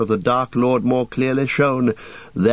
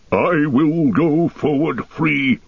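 obstinate dwarf; 6 semitones higher, slower than usual. Acted. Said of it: "Gimli was obstinate".

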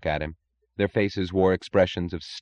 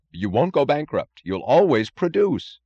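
indifferent; 8 semitones higher, 6 dB louder than usual. A narrator's reading. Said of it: "said Doctor Ferris indifferently".

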